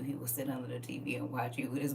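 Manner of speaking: hushed whisper; whispering about the nephew. Real, not acted. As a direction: drop to a secret whisper. Describing nephew watching.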